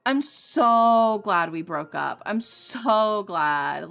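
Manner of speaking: imitating the ex gloating, loud and stretched; mock smug ex. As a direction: lay on his smug relief thick. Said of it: "had the audacity to be like".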